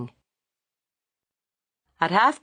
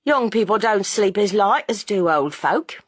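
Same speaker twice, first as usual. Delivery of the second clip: sententious; 5 semitones higher than usual. A narrator's reading. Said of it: "Missus Bunting said sententiously".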